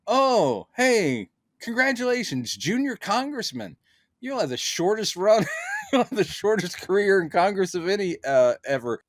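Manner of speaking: high, sing-song condescending taunt; mock taunting Valentina. Valentina mocking the junior congressman, high sing-song taunt. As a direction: sweetly rub in the insult.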